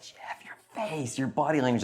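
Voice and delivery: hushed warning whisper in church; urgent whisper. Retold or imitated. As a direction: whisper it urgently so nobody hears. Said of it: "she'll be like".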